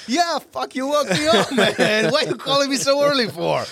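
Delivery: pitched far up, whiny groaning complaint with a laugh; grumpy groggy answer. Retold or imitated. Friend woken by an early call whines into the phone, high and groggy. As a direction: whine like you've just been woken.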